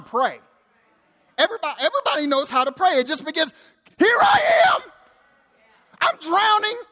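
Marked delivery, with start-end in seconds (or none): 4.0-4.8 very high, loud yelled prayer. Acted. Preacher shows that praying is yelling to God, high full yell. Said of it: "do you know how to yell". 6.0-6.8 high-pitched drowning cry; yelled prayer. Acted. Preacher acts out someone praying while drowning, high desperate cry. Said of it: "do you know how to yell".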